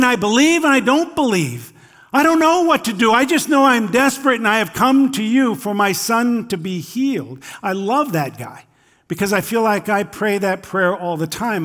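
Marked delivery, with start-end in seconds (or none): 0.0-7.4 higher, louder, rushed pleading of a frantic dad; desperate father crying out. Retold or imitated. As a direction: beg like a father at the end of his rope, racing the words. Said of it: "kind of out of desperation, cries out".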